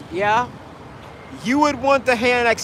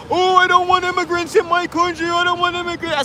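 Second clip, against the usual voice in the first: mock nationalist; 9 semitones higher than usual. Mocking anti-immigrant Brits.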